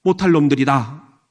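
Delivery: mild acted disgust, loud at the start; retold loathing. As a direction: voice someone else's bitter grudge. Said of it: "그러면서 치를 떤 거예요".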